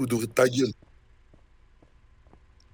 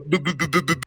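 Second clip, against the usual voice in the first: mock glitching CD; 3 semitones higher than usual. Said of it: "Le C D, il bug là".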